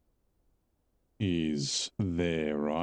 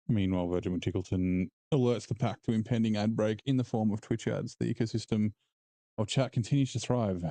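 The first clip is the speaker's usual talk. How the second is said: nature documentary. Pretend. Streamer narrates chat like documentary.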